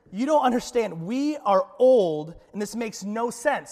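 Zechariah pleading with the angel; voicing Zechariah. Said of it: "he says".

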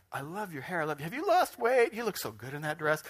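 mock-admiring, leaping up high; hammed-up compliments with swooping pitch; gushing lady. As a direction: play an over-delighted flatterer. Acts out lady flattering another.

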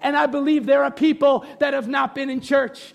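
slow preaching with drawn-out endings; fervent preaching. Real, not acted. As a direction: build to an emphatic, stretched last phrase. Preaches assurance to the church.

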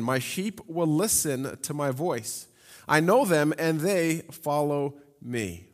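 slow, weighty reading with each phrase set apart; slow emphatic quote. Shown as a demonstration. Preacher stressing Jesus' words to the church, slow and weighty. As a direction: lean on will and know, unhurried. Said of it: "Jesus says again".

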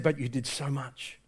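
soft, low reassurance; mild, hushed comforting; consoling. Retold or imitated. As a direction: gently reassure a distraught friend. Stern reassures the distraught Schindler.

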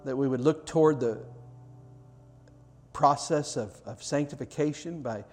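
earnest pastoral prayer voice; closing prayer. Acted. Pastor praying over the congregation at the close, earnest prayer. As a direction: pray it over the room, sincere and unhurried.

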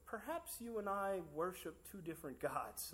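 slow, deadpan comeback; dry, measured put-down, slowed; slow dry retort. Retold or imitated. Preacher answering his friend, slow and deadpan. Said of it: "looked around and said".

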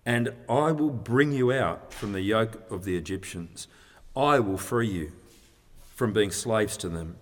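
deliberate reading, weight on "I am" and "I will"; particular emphasis. Shown as a demonstration. Preacher reads God's reply to Moses, with particular emphasis. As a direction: lean on each "I am" and "I will", pausing between phrases. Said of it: "with particular emphasis".

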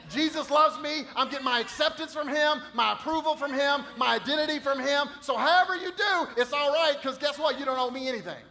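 high, loud, jubilant declaration; joyful proclamation. Pretend. Believer telling others they owe him nothing, jubilant. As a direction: burst out with how free you are. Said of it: "you can go".

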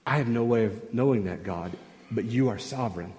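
low, softened humble admission. Acted. Preacher as the prophet admitting he cannot know, humbly. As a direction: voice the prophet yielding to God, quietly. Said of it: "the humility expressed by Ezekiel".

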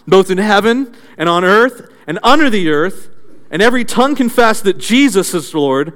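measured, solemn reading of the hymn; scripture recitation. Acted. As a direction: read it out like sacred verse. Reciting early church hymn.

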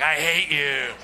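lightly voiced, sullen owl; a hint of a disgruntled bird glaring back; grumpy owl. Owl glaring at the pastor's flashlight, a lightly voiced sullen grumble. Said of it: "looking at me like".

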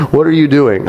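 put-on preacher gamely tries the Russian doctor's accent after all. Preacher reading a testimony mimics the Russian doctor, half-hearted Russian accent. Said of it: "She tries in the email".

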